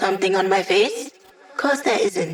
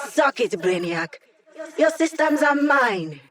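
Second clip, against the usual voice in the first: higher, slow triumphant taunt; gloating; 5 semitones higher than usual. Acted. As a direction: savour the win over the villain. Hacker gloats over beaten enemy.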